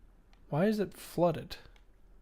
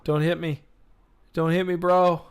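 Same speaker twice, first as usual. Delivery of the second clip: yelling while running away; 6 dB louder than usual. Real, not acted. Monster attacking in game.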